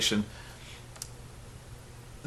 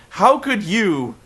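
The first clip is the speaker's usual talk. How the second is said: mock Dixie wail; 8 semitones higher than usual. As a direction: overplay a betrayed boss.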